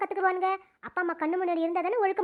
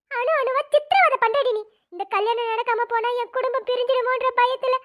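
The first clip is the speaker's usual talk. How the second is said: bitter reproach; 3 semitones higher than usual. Acted. Mother berates daughter.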